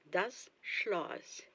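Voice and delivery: "das Schloss" whispered softly; whispered German word. Shown as a demonstration.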